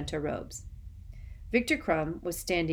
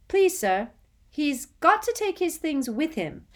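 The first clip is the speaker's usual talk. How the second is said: put-on high, louder squeaky boy voice; squeaked; 11 semitones higher, 7 dB louder than usual. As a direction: squeak it out anxiously. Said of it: "squeaked Colin".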